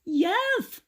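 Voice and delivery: put-on high, slow, lisping old man voice; toothless Grandpa. A narrator's reading. Grandpa mourns his stolen teeth, high toothless lisp. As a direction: lisp through a mouth with no teeth.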